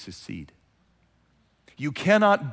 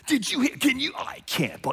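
gossipy outrage; 9 semitones higher than usual. Acted.

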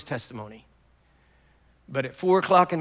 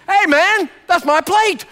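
much higher, loud yell over the bacon; retold yell; 12 semitones higher, 10 dB louder, slower than usual. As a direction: bark it out like a man guarding his plate. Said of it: "And he yells at me".

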